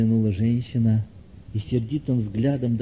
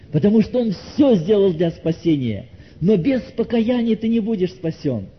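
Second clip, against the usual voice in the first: raised, insistent warning to the congregation; urgent preaching; 9 semitones higher, 4 dB louder than usual. Real, not acted. Preacher warns listener that repentance is needed, urgent. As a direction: press the point home on a higher pitch.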